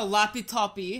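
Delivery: "lappy toppy" with an ee ending on both halves; Polish word. Retold or imitated. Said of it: "In Polish".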